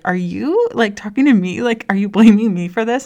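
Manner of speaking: quoting the husband's indignant pushback, building; defensive husband. Retold or imitated. Husband walking in, asking if he's blamed, rising indignation. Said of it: "and he was like".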